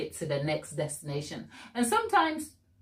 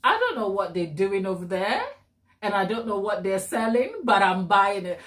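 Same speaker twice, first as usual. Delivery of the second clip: light imitation of an old Southerner's twang; a hint of rugged Southern twang; Southern American twang. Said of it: "Southern twang, and he's like".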